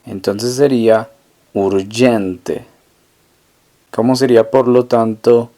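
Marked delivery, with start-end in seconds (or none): 1.5-2.7 teacher models "urgente" with a soft Italian g. Shown as a demonstration. Teacher shows the Italian g sound in "urgente". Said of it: "la G y la E suenan Y".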